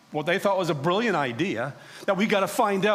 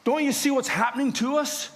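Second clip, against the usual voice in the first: higher-pitched, urgent captain; alarmed captain; 11 semitones higher than usual. Retold or imitated. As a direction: voice a frightened ship captain demanding answers. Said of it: "He wanted to know".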